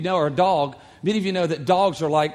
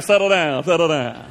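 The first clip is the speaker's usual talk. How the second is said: louder, calming a hyper dog; a hint of a truck driver; 5 dB louder than usual. Truck driver telling his Yorkie to settle down, mild imitation. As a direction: hush the little dog playfully. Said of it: "He's like".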